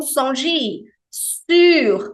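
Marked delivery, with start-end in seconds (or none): 1.1-2.1 "Sur" higher and louder, final R clearly sounded. Shown as a demonstration. Teacher insists the R is heard, emphatic demo. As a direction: give "Sur" its full final R. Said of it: "o R final não é mudo".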